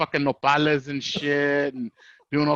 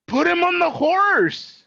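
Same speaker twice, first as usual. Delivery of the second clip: grandma voice; 12 semitones higher, 3 dB louder, slower than usual. Retold or imitated.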